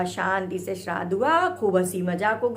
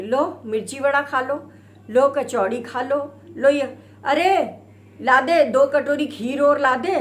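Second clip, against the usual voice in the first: higher and louder, pushing food on her; hammed-up teasing offer, rising to a call; loud mocking host pressing extra helpings; 5 semitones higher, 4 dB louder than usual.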